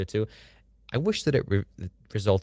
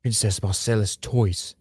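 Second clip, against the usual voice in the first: gruff Ned voice; slower than usual. Shown as a demonstration. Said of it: "It's almost there".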